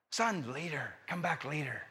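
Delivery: low, soft dismissal; subdued, preoccupied reply; quiet brush-off. Retold or imitated. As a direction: act a busy dad putting his child off. Busy dad putting son off.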